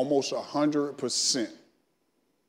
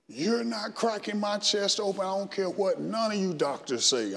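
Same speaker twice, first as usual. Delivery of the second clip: retold angry protest; 8 semitones higher, 4 dB quieter than usual. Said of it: "I'm screaming in the recovery room".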